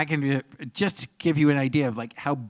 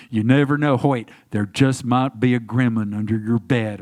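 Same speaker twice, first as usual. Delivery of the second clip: film's closing line; 4 semitones lower than usual. Retold or imitated. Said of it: "like that".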